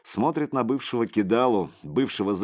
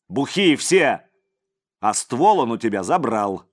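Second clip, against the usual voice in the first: furious rant; 4 semitones higher, 7 dB louder than usual. A narrator's reading. Leader furious, reddening.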